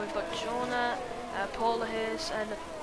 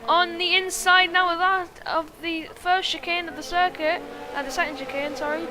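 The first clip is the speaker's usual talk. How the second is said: loud, high, building race call to a shout; excited commentary; 8 semitones higher, 16 dB louder than usual. Real, not acted. Crash called live.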